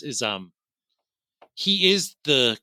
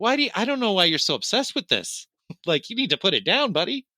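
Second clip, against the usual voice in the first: higher-pitched, mock-exasperated lazy cop; lazy cops brushing off; 6 semitones higher than usual. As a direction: talk the obsessed colleague down dismissively. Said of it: "just lazy and negligent".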